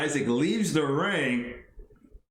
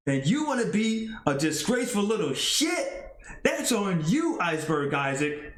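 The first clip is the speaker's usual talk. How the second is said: lightly voiced wrestler promo; heated comeback; 4 semitones higher than usual. The wrestler answering Iceberg Isaac, mild heated comeback. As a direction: fire back at the traitor.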